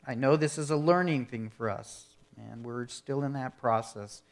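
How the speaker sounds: earnest, measured prayer voice, softening toward the end; closing prayer. Acted. Pastor praying over his congregation, earnest and hushed.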